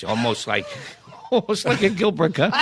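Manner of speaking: a laughing hint of a squawky Gilbert Gottfried. Retelling the Copa boss's odd voice, a lightly laughed Gottfried squawk. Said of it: "he talked like this".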